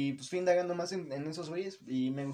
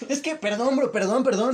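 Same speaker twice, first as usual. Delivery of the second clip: súplica de perdón algo aguda, medio en broma; llanto imitado; 3 semitones higher, slower than usual. Retold or imitated. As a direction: imita a un borracho llorón pidiendo perdón. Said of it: "yo, yo, llorando". (imitando un llanto suplicante)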